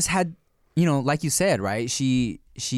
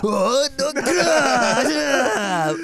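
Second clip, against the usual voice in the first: mock anguished chef; 12 semitones higher, 4 dB louder, much slower than usual. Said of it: "He's like".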